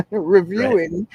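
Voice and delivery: laughing through the word, slowed; chuckling while saying it. Real, not acted. Laughs mid-sentence at own joke.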